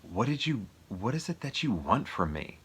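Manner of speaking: lightly acted question, pitch lifting then falling; retold wife's question. Widow asks her husband what he wants, lightly acted. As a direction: act out her asking him, lightly heightened. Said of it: "She goes".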